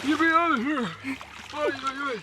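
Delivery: high yelp in icy water; in ice cold water. Real, not acted. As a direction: shriek from the cold plunge. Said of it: "That's cold".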